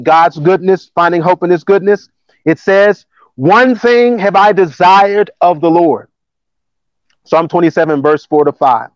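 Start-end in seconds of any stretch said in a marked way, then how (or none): 3.3-6.1 slow, measured Bible reading; scripture reading. Acted. Preacher reading the psalm to the congregation, measured scripture reading. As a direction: read the verse out deliberately.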